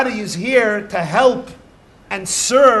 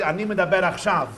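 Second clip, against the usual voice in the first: Hebrew in a Sephardic accent, "medaber" said "medaber"; "achshav" said crisp and quick, Sephardic style; faster than usual. Shown as a demonstration. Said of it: "A Sephardi".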